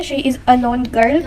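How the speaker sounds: slow, deliberate reading; slow wrong example. Shown as a demonstration. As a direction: read very slowly, word by word. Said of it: "गलत है".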